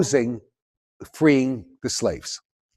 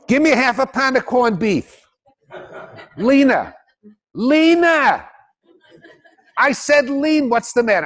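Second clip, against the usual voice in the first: New York Jewish deli customer; 9 semitones higher than usual. Acted. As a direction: bark the order like a demanding New York deli regular. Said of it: "we all know what a typical New York Jew is".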